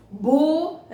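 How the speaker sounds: "Buracos" in three separate syllables. Shown as a demonstration. Teacher separating syllables for the class, "Buracos" piece by piece. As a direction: break "Buracos" into bu, ra, cos. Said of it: "a separação silábica delas".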